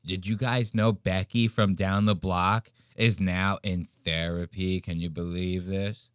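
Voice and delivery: hushed gossiping neighbor. Retold or imitated. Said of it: "You go".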